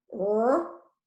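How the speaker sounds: "R-E-P-T-I-L-E" as letter sounds, long gaps; sounded out. Shown as a demonstration. Teacher dictating a spelling word, "R-E-P-T-I-L-E" sounded out. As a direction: say each sound of "R-E-P-T-I-L-E" on its own.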